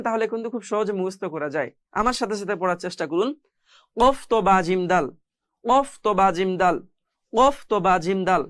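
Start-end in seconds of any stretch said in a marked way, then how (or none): 4.0-8.4 letters run together as one brisk chain; quick recitation. Shown as a demonstration. Teacher showing students a memorising drill, quick and connected. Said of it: "এভাবে দ্রুত যদি আপনি পড়েন".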